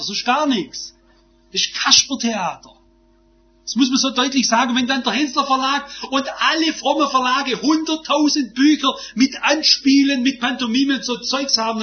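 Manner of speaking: loud, high-pitched pulpit denunciation; forceful preaching. Real, not acted. Preacher condemning pantomime in church, forceful and emphatic preaching. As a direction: thunder it out, leaning hard on the key words.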